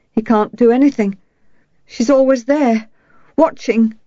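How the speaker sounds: put-on a girl getting upset about the watching mother; rising shrill. A narrator's reading. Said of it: "Anouk's voice rose shrilly".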